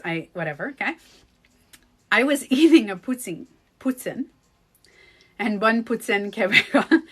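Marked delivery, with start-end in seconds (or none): 2.1-4.3 poutine said the French way, poo-TSIN. Shown as a demonstration. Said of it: "you have to say it with the French accent". 5.4-7.0 Québécois French accent on bon poutine Québécois. Shown as a demonstration. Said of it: "the way I say poutine".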